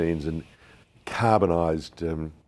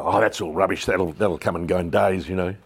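dismissive Jerry; 5 dB louder than usual. Retold or imitated. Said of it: "That's how Jerry speaks".

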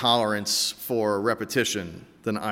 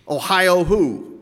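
weary drawn-out question; 6 semitones higher, 4 dB louder, much slower than usual. Retold or imitated. Exasperated repeat of joke.

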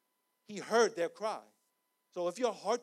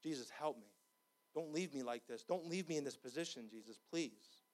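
hushed plea; 3 semitones lower, 5 dB quieter than usual. Acted. Acted quiet plea.

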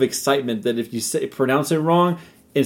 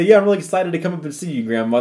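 quick, higher phone-call greeting; excited grandchild on the phone; 5 semitones higher, faster than usual. Acted. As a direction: tell Grandma eagerly, at a quick pace. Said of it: "You would say".

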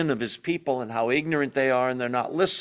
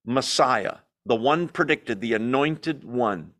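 definite; slower than usual. Retold or imitated. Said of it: "look at how definite he is".

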